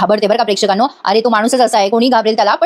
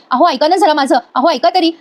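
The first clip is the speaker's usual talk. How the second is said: retold crying out; 4 semitones higher than usual. Wife begs her husband to listen as he drags her, mild mock cry. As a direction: imitate a wife calling out to be heard, pitch up. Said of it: "Suman ओरडत असते".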